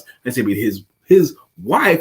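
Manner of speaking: single out "wife" from anyone else; stress on WIFE. Shown as a demonstration. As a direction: lean on "his," then hit "wife". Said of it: "it could have been his child".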